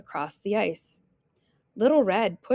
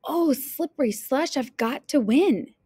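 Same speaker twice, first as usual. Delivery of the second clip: put-on higher-pitched, eager young heroine; eager exclamation; 4 semitones higher than usual. Little Red sets her heart on new skates, eager. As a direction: exclaim it with determination to win.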